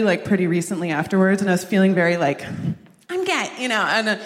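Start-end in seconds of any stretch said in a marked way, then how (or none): 3.1-3.5 casual high "I'm gay". Shown as a demonstration. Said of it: "not, like, screaming it all the time".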